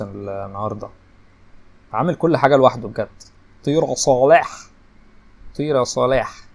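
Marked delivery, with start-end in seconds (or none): 3.6-6.5 urging shout. Real, not acted. Gamer yelling at Salah to clear the ball, loud. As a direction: bark the order at the player.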